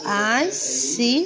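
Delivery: "Assinado" slow, first syllable closed on an S; syllables pulled apart, hissing S ending the first in "Assinado"; S sound shown. Shown as a demonstration. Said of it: "percebe o sonzinho do S".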